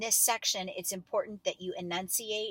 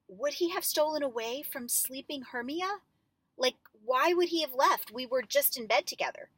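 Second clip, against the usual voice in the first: suspicion; 6 semitones higher than usual. Shown as a demonstration. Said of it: "at first it's like suspicion".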